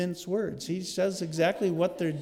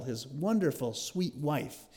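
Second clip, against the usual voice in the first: dry mock praise, dropping softer at the end; sarcastic; 5 dB quieter than usual. Real, not acted. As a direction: say it as if praising, meaning the opposite. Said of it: "I say that with incredible sarcasm".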